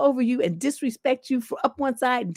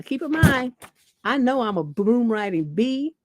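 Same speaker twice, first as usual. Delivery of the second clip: ordinary delivery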